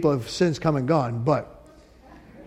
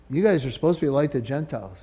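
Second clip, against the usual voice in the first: softer, fast, lower rebuke; 3 semitones lower, 5 dB quieter, faster than usual. Retold or imitated. Jesus telling Israel its failing, soft quick rebuke. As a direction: tell them gently but plainly.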